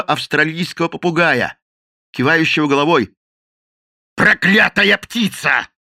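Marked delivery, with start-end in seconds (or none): 4.2-5.7 growled. A narrator's reading. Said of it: "прорычал подошедший Мадден".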